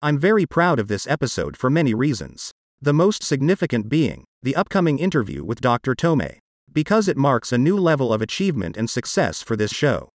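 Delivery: text-to-speech voice, even and mechanical; computer-generated voice. Real, not acted. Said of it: "my part of this podcast is done with a computer-generated voice".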